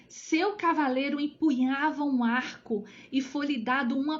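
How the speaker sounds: measured, emphatic Bible reading; scripture reading. Acted. Teacher reads Revelation to online study group, emphatic scripture reading. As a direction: declaim the verse with weight on key words.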